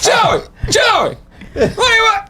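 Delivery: yelling from the other room; from another room. Retold or imitated. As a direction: call out across the house. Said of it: "That's what I hear from the other room".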